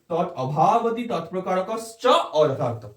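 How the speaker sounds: slow, word by word, with small pauses between "তৎ", "অভাবতি", "তৎপ্রকারকশ্চ" and "অযথার্থ"; broken into parts. Shown as a demonstration. Teacher reciting the Sanskrit definition for students, broken into words. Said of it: "আমি যদি ভেঙে ভেঙে বলি".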